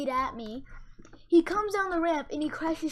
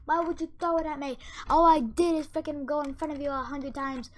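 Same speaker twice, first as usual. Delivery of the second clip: higher, mocking whine of the hurt kid; mock whiny kid; 3 semitones higher than usual. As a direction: imitate the crybaby complaining, pitched up. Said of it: "going like".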